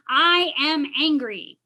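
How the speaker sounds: slow, deliberate statement; slow affirmation. Shown as a demonstration. Counselor demonstrating the exercise, slow and deliberate. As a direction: say it slowly like an affirmation. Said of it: "I'm gonna use anger".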